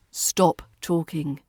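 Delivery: slow "Stop talking." with Stop stressed; stress on the verb. Shown as a demonstration. English teacher modelling an imperative, stress on Stop. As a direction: land on Stop, then take talking down slowly. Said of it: "to stress the verb at the beginning".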